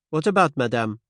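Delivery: gentle French-tinged Poirot. Acted. Poirot voiced.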